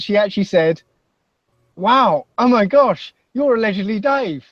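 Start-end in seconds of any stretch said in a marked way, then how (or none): 1.8-4.4 imitating a starstruck fan; starstruck gasp. Retelling the woman's starstruck reaction.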